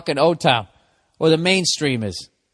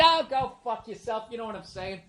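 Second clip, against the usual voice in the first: grumbled comeback; 6 semitones higher, 10 dB quieter than usual. Acted. Grumbled reply to his heckler.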